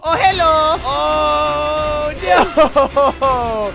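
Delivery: drawn-out, high-pitched dismay; startled greeting into a long "oh no". Real, not acted. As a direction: caught off guard, stretching the words. Startled by threat in game.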